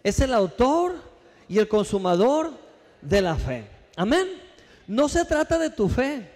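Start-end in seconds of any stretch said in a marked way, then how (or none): 0.0-3.6 call to repeat. Acted. Preacher to congregation, rising call to repeat. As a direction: lead the church in saying it. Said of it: "Dígalo conmigo".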